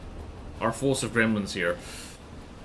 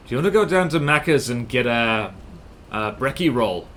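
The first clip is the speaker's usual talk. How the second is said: bad New Zealand accent. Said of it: "I suck at doing a New Zealand accent".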